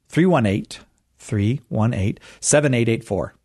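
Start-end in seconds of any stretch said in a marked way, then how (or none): 0.1-0.8 THREE ONE EIGHT higher and measured; deliberate. Shown as a demonstration. Host giving callers the phone number, deliberate. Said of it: "Say it slow". 1.2-2.2 THREE, ONE, EIGHT spaced out slowly. Shown as a demonstration. Host repeating the number for callers, slow. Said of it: "Say it slow".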